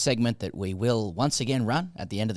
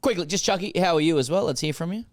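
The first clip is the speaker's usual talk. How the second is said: higher and louder, bursting with excitement; overexcited; 8 semitones higher, 4 dB louder, faster than usual. Real, not acted. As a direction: hype up Chucky like a game show host. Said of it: "Whoa, okay, settle down there".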